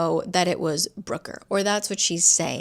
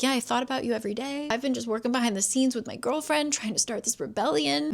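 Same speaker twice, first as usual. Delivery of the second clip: higher, softer, rushed offhand brother; casual brother; 4 semitones higher, 4 dB quieter, faster than usual. Retold or imitated. Brother brushing off his sister's anger, quick and soft. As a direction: breeze through it like it's no big deal. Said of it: "he is like".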